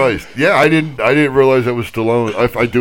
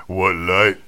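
Stallone reading Shakespeare; 2 semitones lower, much slower than usual. Pretend. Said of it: "I couldn't do it straight".

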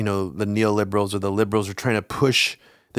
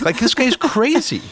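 exasperated; 10 semitones higher than usual. Retold or imitated. Mocking exasperated reaction.

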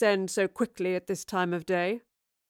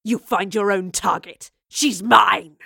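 louder rage, peaking on the claim; furious shout; 7 dB louder, slower than usual. Acted. Villain raging at captive.

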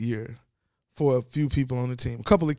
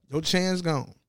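talking while chewing gum; 3 semitones higher than usual. Real, not acted. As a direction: speak around a piece of gum. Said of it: "I know I shouldn't have this gum in my mouth".

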